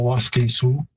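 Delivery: Waskesiu said the Plains Cree way, WAS-ke-siu. Shown as a demonstration. Linguist shows the Plains Cree form: careful Cree pronunciation. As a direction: Cree pronunciation of Waskesiu, first syllable stressed. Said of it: "in Plains Cree, I'd say".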